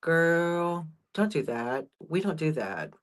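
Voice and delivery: low, softly muttered cat reproach; hushed, put-out cats judging the new one; disapproving older cats. Acted. Older cats look at the kitten, disapproving. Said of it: "my other cats look at her like".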